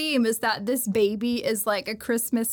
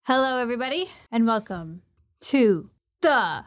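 sportscaster voice. Acted. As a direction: boom it out like a ring announcer. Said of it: "you sounded like a, like a sportscaster".

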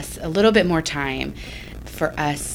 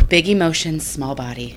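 big-small contrast. Shown as a demonstration. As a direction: shrink the voice on "small body". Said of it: "I constantly say in my house".

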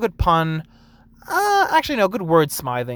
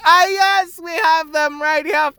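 much higher, loud, put-on prim yes; mock-polite barista; 13 semitones higher, 6 dB louder, slower than usual. Barista pointing out the straws, prim high service voice. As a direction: perform the prim helpful server. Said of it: "It's just like".

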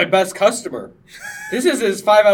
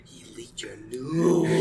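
shocked imitation; 4 dB quieter, much slower than usual. Imitating Ralph's shocked reply.

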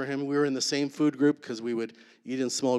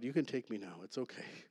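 hushed prayer; 11 dB quieter than usual. Retold or imitated. Quoting his prayer of surrender.

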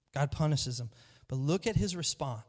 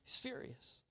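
whispered; 8 semitones higher, 15 dB quieter than usual. Acted. Preacher telling the congregation about Cain, whispered. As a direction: lean in and breathe the word.

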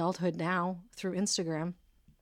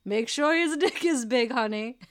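advising mother voice; 4 semitones higher, 6 dB louder than usual. Retold or imitated. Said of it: "Your mother's like".

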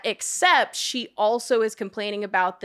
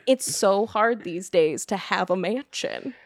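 mock whiny celebrity. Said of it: "And was like".

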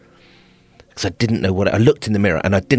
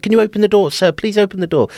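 much higher, louder worried calling; calling through a door; 12 semitones higher, 4 dB louder, faster than usual. Retold or imitated. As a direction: staff calling through the locked door, concerned. Staff calling through the toilet door.

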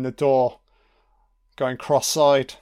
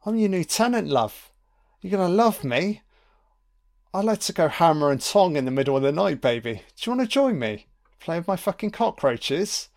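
creepy tenant voice; 6 semitones higher than usual. Retold or imitated. Voicing the creepy tenant Carter.

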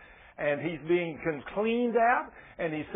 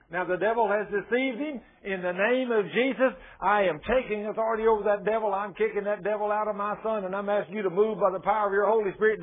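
fervent, insistent parent's plea to God; bold prayer; 2 semitones higher than usual. Acted. Parent boldly praying to God for a wayward son, fervent and insistent. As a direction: claim it boldly, pressing on without letting up. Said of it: "come in and tell Daddy what you want".

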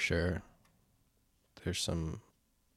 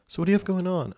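playing his date; 11 semitones higher, 4 dB louder, faster than usual.

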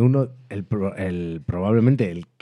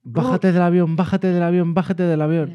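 pleading cry; 8 semitones higher than usual. Retold or imitated. Quoting a famous show line.

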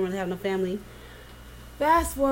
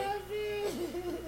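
laughing protest; 9 semitones higher, 10 dB quieter than usual. Real, not acted.

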